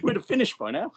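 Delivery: real amused laughter while talking; laughing. Real, not acted. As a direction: laugh the line out. Laughing along at the joke.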